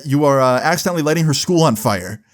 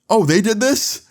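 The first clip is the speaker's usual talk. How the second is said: high-pitched incredulous question; surprised cop; 10 semitones higher than usual. Retold or imitated. Cop learning from mom who did it, incredulous. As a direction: imitate a cop catching on, pitched up. Cop reacts to mom's shock.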